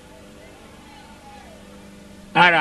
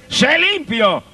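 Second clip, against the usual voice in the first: Jesus' command; 5 semitones higher, much slower than usual. Acted. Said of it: "Y Jesús le dijo".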